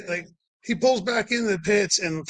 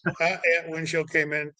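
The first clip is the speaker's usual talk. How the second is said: a touch quieter, flat and unbothered; calm even tone; 4 dB quieter than usual. Retold or imitated. Josh downplaying the crash to his friend, calm. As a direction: shrug it off completely. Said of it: "it was just".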